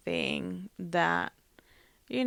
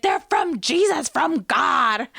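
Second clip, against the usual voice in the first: much higher, louder mock mother voice; insistent mom; 6 semitones higher, 7 dB louder than usual. Mother insists to her child the flowers came from God, high mock voice. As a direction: play the mother insisting, voice pitched way up.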